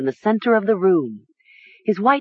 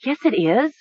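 high, stubborn contradiction; insistent; 8 semitones higher than usual. A narrator's reading. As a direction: insist in a raised pitch. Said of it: "she insisted".

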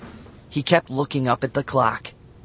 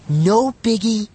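louder, higher and slow, breezy brush-off; whispered; 10 semitones higher, 6 dB louder, slower than usual. A narrator's reading. Bradley brushing off Matt, breezy. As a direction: shrug it off like no big deal. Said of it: "Bradley whispered".

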